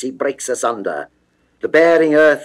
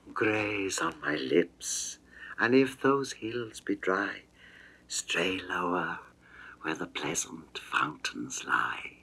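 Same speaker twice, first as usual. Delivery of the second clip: breathy, intimate whisper, much softer and lower; seductive whisper; 4 semitones lower, 12 dB quieter than usual. Acted. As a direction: lure him in with a hushed whisper. Venus whispers seductive invitation.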